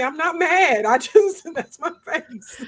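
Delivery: high, exasperated denial; exasperated protest. Retold or imitated. Telling people who think she's mad, high protesting voice. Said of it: "I tell people that".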